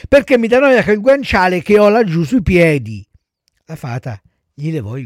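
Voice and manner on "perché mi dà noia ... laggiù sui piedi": put-on high, loud little-boy refusal; whining child puppet. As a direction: protest like a fussy child. Pinocchio invents excuses to refuse. (burattino lamentoso, voce acuta)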